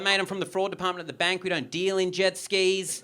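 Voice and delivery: exasperated bank officer. Retold or imitated. Bank officer voiced in story.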